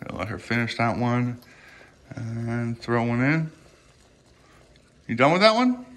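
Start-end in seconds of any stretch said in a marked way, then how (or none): 5.1-5.9 high, lilting question to a pet; pet talk. Real, not acted. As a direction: check in sweetly with a little animal, pitch rising. Asking her pet lizard.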